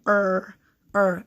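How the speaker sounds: "er" drawn out on its own; er as one long R-colored sound; R-controlled vowel. Shown as a demonstration. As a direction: hold er as "errr", twice. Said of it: "they all sound".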